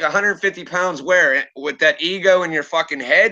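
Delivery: retold incredulous challenge, back in own voice; mildly worked-up disbelief; scornful comeback. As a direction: throw the claim back as a scornful question. His scornful comeback to her claim.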